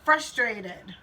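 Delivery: very slow, each word spelled out; slow naming of feeling. Shown as a demonstration. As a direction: model it slowly for the kids. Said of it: "then we name our feeling. We say".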